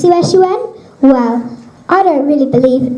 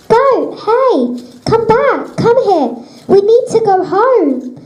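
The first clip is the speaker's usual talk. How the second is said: higher, raised call after the goat; 4 semitones higher, slower than usual. Acted. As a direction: call the goat back across the field. Calling a wandering goat back.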